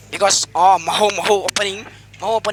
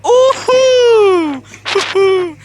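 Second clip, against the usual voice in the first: high whooping cheer, laughing through it; shouted chorus; 11 semitones higher, 9 dB louder, much slower than usual. Pretend. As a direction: belt out the chorus like a cheering crowd. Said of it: "then shout the chorus".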